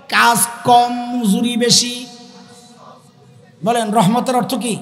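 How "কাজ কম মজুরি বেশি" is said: slow, spaced-out words to repeat; teacher dictating slowly; slow recital. Shown as a demonstration. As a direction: say it slowly for the crowd to echo. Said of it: "মুখস্থ করেন আমার সাথে".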